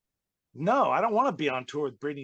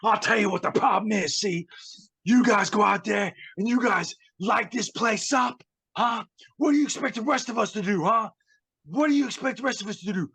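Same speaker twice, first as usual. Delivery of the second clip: much higher, louder hammed-up tirade; mock angry rant; 9 semitones higher, 5 dB louder than usual. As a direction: play the offended loudmouth ranting. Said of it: "he's like".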